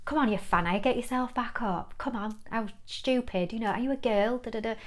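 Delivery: lightly hammed-up abusive inner voice; loud male inner critic. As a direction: imitate a scornful macho voice barking you up. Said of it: "the male loud voice".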